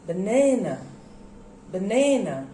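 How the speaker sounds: banana with the middle syllable stressed; stress demonstration. Shown as a demonstration. Teacher showing where stress goes, banana stressed on middle syllable. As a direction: lean on the second syllable of banana, ba-NA-na. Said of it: "where do you put the stress?".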